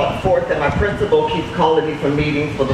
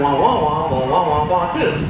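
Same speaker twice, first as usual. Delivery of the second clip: Charlie Brown wah. Shown as a demonstration. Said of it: "how did the bell sound".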